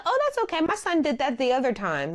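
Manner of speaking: high, easygoing client voice that settles back down; imitating the client. Groomer quoting the client about her son, high and breezy. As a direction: start way up like the client, then relax. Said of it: "She said".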